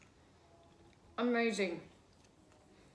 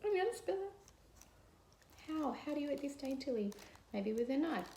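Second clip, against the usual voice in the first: chewing while talking; 3 dB quieter than usual. Real, not acted. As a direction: mouth full of zucchini. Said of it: "not gonna be dainty to eat".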